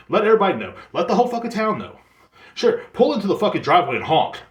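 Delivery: high, loud mock encouragement; sarcastic outburst. Sarcastic rant urging the driver on.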